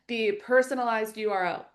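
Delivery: breathy whisper broken by hiccups; hiccuping. Real, not acted. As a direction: say it through a hiccup. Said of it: "I keep hiccuping".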